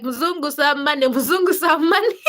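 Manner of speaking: playful mock calling out; street callers imitated. Asking if they call you Muzungu, playfully mimicking callers. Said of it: "Were they like".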